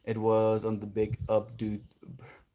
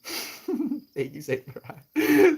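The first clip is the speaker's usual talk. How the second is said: high-pitched thanks; 3 dB louder, much slower than usual. Real, not acted.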